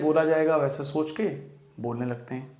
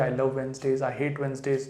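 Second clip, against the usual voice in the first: model practice sentences; much slower than usual. Shown as a demonstration. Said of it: "एक छोटा sentence बना लीजिए".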